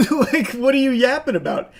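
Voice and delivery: laughing through "what are you yapping about"; amused, incredulous laugh; laughing disbelief. Real, not acted. Laughing at senator.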